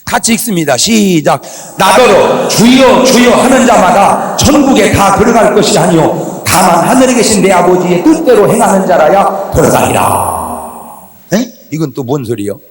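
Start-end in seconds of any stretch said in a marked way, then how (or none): 1.8-11.1 slow, loud, forceful verse reading; loud scripture reading. Shown as a demonstration. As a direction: read the verse out at full volume. Leads congregation in reading verse aloud. (성경 구절을 큰 소리로 힘차게 봉독)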